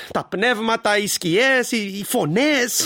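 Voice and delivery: mock her ghosts with a slow eerie voice. Husband mocks her spirit talk. (κοροϊδευτικά, αργά και απόκοσμα)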